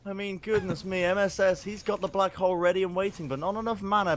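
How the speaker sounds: esports caster. Real, not acted. Casts through laughter.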